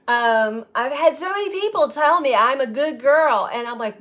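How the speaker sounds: ordinary talk, nothing marked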